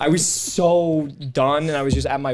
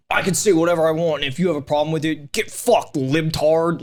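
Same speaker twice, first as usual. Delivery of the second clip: defiant edgy comic; 4 semitones higher than usual. Acted. Comic mocking guys who never apologize, mock-belligerent. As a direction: act the combative loudmouth comic, building higher. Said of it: "never been one of those guys who's like".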